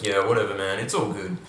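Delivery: depressed monotone voice; boring voice parody. Shown as a demonstration. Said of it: "depressed, monotone voice".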